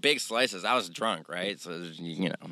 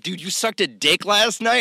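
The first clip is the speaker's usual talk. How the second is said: high loud disbelieving question; incredulous; 9 semitones higher, 4 dB louder than usual. Retold or imitated. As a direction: ask it stunned. Friends asking incredulously.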